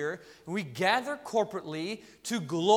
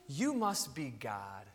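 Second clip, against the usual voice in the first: low, slow, hushed conclusion; awestruck dog; 8 semitones lower, 8 dB quieter, slower than usual. Acted. Dog deciding its owner is divine, awestruck. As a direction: drop soft and slow in reverent realisation. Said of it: "so a dog, um, goes".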